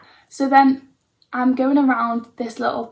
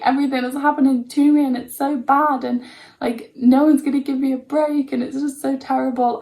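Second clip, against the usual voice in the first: hammed-up self-pitying whine, a bit louder; mock her old self-pity; mock victim mode; 3 semitones higher, 5 dB louder than usual. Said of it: "I was totally in victim mode".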